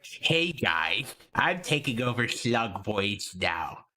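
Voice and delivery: slow, lightly put-on announcing voice; a hint of a slow, low put-on character; lightly imitated takeover. Streamer imagines a takeover announcement to the chat, lightly put-on slow voice. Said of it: "just appeared and went".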